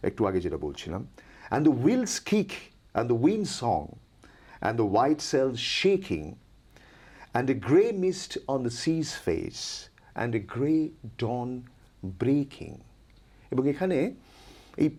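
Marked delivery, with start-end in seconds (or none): 1.5-12.8 slow rolling verse reading; poem recitation. Acted. Teacher reading the next stanza to her class, slow and rhythmic. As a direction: read it with the sway of the sea.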